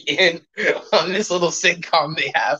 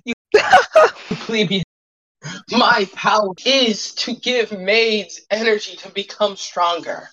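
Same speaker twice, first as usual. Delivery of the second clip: haughty villain voice; 4 semitones higher than usual. Acted. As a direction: sneer down at the plebeians. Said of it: "NPC speech continues, loud laugh".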